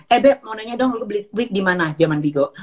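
a light sweet-talking imitation of a pushy stranger; mimicking Gaby. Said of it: "Jadi dia langsung".

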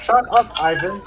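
sharp, loud shut-up; loud snap. Real, not acted. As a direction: bark it at him. Yelling at a teammate.

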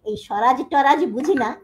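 loud, forceful recital of Nazrul's words; declaimed defiance. Retold or imitated. Lecturer voicing Nazrul's editorial to students, defiant and loud. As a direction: proclaim it like a rebel editorial. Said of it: "একদম ওর ভাষা".

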